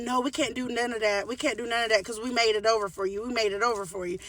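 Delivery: lightly voiced snippy employee; nasty employee. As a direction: mimic the rude man on the phone. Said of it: "He was really nasty".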